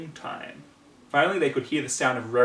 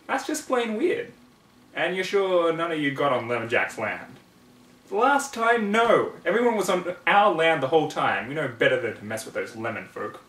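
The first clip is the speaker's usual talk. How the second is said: lightly voiced country pony; 5 semitones higher, 5 dB louder than usual. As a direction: play the ponies lightly. Voiced farm pony dialogue.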